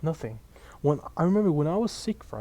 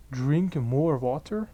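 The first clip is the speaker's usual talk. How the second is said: incredulous repeat; much slower than usual. Real, not acted. Mocking the teacher's advice.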